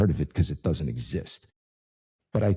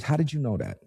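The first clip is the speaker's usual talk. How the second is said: amazed; 8 semitones higher, faster than usual. Retold or imitated. Amazed receptionist, retold.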